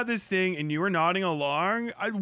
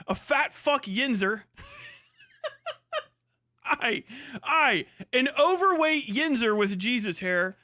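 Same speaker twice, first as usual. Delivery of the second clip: laughing self-mockery; 3 semitones higher than usual. Real, not acted. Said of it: "self-mocking rant".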